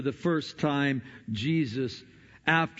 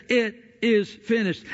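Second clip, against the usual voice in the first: lightly raised, higher cry of jubilation; mock jubilant shout; 4 semitones higher than usual. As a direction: retell a triumphant shout, only mildly. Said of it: "we hear a shout of jubilation".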